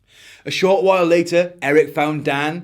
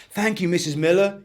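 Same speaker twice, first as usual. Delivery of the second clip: put-on higher, bright boy's thanks; chiming thanks; 5 semitones higher than usual. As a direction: sing out your thanks. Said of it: "he chimed".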